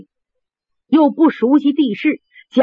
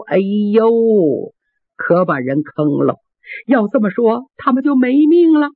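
put-on old woman crying. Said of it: "老夫人听这话哭了".

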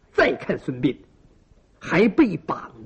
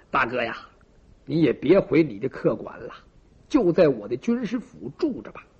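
consoling brother; 6 semitones lower than usual. A narrator's reading. Host consoles injured sworn brother.

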